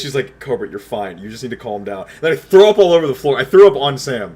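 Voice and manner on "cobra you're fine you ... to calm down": lower, softer imitated soothing; calming reassurance. Sam telling panicking Cobra he's fine, calming. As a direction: talk him down quietly, as she did.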